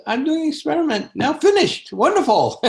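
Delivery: breezy and high, rattled off fast; light-hearted. Retold or imitated. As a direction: toss it off gaily, no worry at all. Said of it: "with such a light heart".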